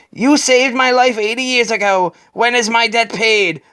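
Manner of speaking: a lightly voiced elderly woman asking; old woman. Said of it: "The old woman says".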